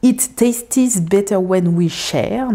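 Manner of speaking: slow English title in a French accent; self-mocking French accent on the English title. Shown as a demonstration. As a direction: read the English words slowly in a French accent. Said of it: "avec mon super accent".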